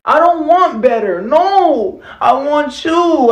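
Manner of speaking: put-on girlfriend voice. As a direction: play the devoted girlfriend. Skit, girlfriend replies.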